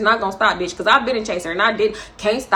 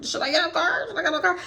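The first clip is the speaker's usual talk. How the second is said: quiet, raised-pitch self quote; muttering to herself, unsure whether to get out; hushed wondering inside the car; hushed inner thought; 6 semitones higher, 6 dB quieter, faster than usual. Retold or imitated. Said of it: "I'm just like".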